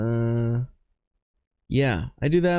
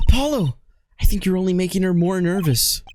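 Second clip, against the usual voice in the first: higher character voice; 6 semitones higher, faster than usual. Acted. Voicing game character.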